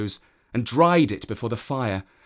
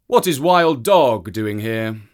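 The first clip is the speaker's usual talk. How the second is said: louder, startled question; a man waking to a surprise; surprised man; 7 dB louder than usual. Acted. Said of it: "he said".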